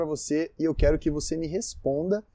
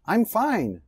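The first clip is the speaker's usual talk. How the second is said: I'm fine said bright, higher and louder; cheerful; 6 semitones higher, 3 dB louder than usual. Shown as a demonstration. Teacher shows a cheerful I'm fine to students. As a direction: sing out I'm fine happily. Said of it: "a sua entonação conta muito".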